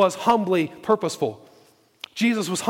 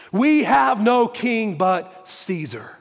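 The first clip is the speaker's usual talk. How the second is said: slow, measured declaration; emphatic proclamation; 3 semitones higher, much slower than usual. Acted. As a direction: space the words out with weight. Preacher repeats the priests' declaration.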